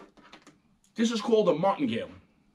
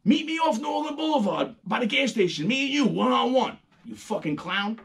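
mock screaming; 6 semitones higher than usual. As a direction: yell it out the window like a New Yorker. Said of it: "start screaming at them like".

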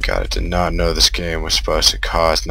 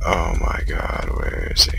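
scared whisper; 2 semitones lower, 5 dB quieter than usual. Real, not acted. Hiding from monster in game.

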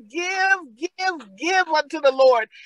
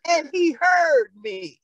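preacher's cry; slower than usual. Acted.

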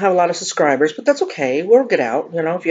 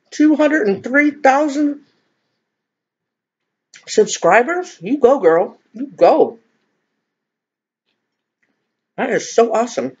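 higher-pitched, delighted congratulations; congratulatory cheer; 7 semitones higher than usual. Real, not acted. YouTuber congratulates Kimmy on her subscriber count, excited cheer.

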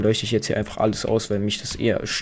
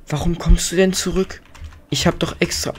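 high-pitched exasperated questioning; exasperated complaint; 6 semitones higher than usual. Real, not acted. Player scolding the villager who came back, exasperated. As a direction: whine in disbelief, pitched up.

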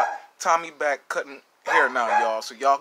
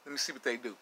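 talking while chewing; chewing a chip; mouth full; 2 semitones lower, faster than usual. Real, not acted. Seen 0: hand at mouth chewing, then bites chip again at +2.5.

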